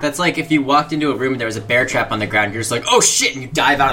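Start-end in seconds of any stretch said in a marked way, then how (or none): 2.9-3.3 high-pitched sudden alarm, acted; mock panicked yelp; startled exclamation. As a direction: blurt it as if springing back. Acted startled reaction to bear trap.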